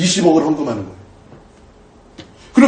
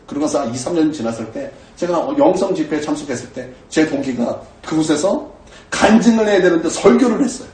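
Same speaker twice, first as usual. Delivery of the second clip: usual speaking voice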